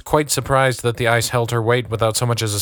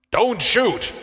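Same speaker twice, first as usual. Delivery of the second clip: mild yell; 11 semitones higher than usual. A narrator's reading. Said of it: "yelled the older man".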